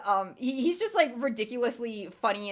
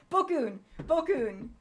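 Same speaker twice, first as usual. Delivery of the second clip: higher, sudden cry of recognition; triumphant recall; 7 semitones higher, slower than usual. Real, not acted. Player finally remembering his favorite character's name, triumphant. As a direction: blurt the name as it comes back.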